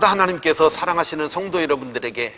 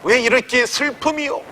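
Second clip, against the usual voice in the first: rising, louder cry of complaint to God; each why climbs higher and louder; building lament; 3 semitones higher, 4 dB louder than usual. Retold or imitated. Preacher voicing the widow crying out to God, building lament. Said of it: "이렇게 탄식할 만합니다".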